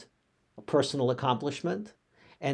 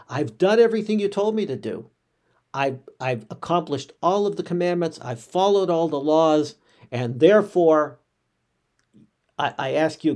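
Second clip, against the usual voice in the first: boastful prayer; 2 semitones higher, 5 dB louder than usual. Retold or imitated. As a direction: puff up and brag about every commandment kept. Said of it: "you're kind of boasting in a way".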